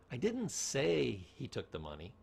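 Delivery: didn't stressed, slow. Shown as a demonstration. Teacher demonstrating tone, slow stress on didn't. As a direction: lean slowly on didn't. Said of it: "change the tone".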